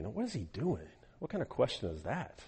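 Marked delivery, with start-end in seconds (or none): none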